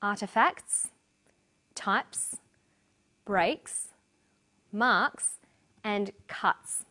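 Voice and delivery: "artefacts, types, breaks, marks, cuts" each ending in a crisp s; word list with pauses, final S unvoiced in each; voiceless S endings. Shown as a demonstration. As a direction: model each word separately, ending on a hissed s. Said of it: "Some examples from the text are".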